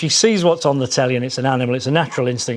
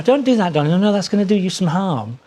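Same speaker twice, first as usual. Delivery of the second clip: sweet scolding; 4 semitones higher than usual. Shown as a demonstration. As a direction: scold as if cooing to a baby. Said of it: "If you were to say".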